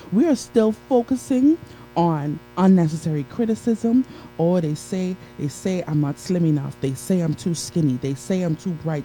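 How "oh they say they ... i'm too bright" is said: rapid, low litany of excuses; mock complaining. Speaker mimics listeners fretting over what others say, complaining. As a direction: rattle off petty worries in a running list. Voicing self-doubting complaints in a list.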